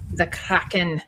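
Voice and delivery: a hint of a Scottish accent on Kraken; mock Scottish accent. Shown as a demonstration. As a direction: say the Kraken with a light Scottish roll on the r. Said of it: "probably a very terrible accent".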